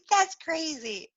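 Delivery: high-pitched imitation of a giggly friend; amused disbelief. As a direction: squeal it as a disbelieving client-teaser. Retells nail girl's amused disbelief.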